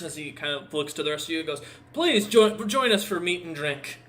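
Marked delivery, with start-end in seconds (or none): 1.9-4.0 loud, high booming welcome; big-hearted orc warrior bellowing welcome; hearty orc invite. Acted. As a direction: call them all to the feast.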